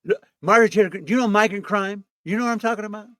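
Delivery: lightly voiced Trump; Trump impression. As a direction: ramble like Trump. Trump voice to Greene.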